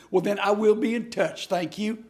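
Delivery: imitating a brisk caller wrapping up; quick sign-off, straight to hanging up; rapid-fire caller. Barbara ending her call with David, rapid-fire. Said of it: "That's how fast the conversation went".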